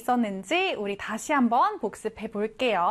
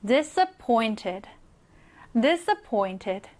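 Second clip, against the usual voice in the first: disappointed said very slowly with the weight on pointed; stress on pointed; 3 semitones lower, much slower than usual. Shown as a demonstration. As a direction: model disappointed for the class, hitting pointed. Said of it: "이 부분에 강세가 들어갑니다". (disappointed의 pointed에 강세를 주어 아주 천천히)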